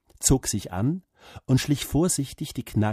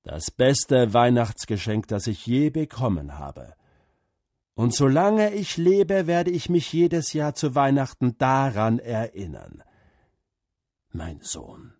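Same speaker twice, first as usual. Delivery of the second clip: lightly voiced grateful father; 2 semitones higher, 4 dB louder than usual. Father thanks his son for the best gift ever. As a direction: let the thanks swell then sink to a hush.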